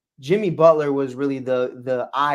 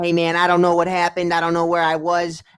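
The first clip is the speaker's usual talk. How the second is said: mock Cat voice; 3 semitones higher, 3 dB louder than usual. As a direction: play him timid and unsure on the mic. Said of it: "he talks like this".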